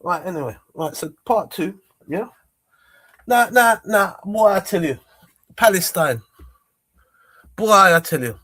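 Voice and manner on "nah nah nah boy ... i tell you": almost shouting in protest; loud and worked up. Real, not acted. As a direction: raise the voice, insistent and heated. Worked up about Palestine.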